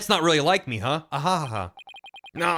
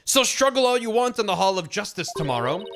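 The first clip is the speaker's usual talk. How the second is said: stern accuser; 3 semitones higher than usual. Acted. Reads a judge's angry accusation.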